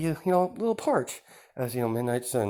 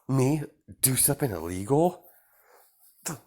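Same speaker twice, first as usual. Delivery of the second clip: mock outrage; 4 semitones higher than usual. Villain feigns offence.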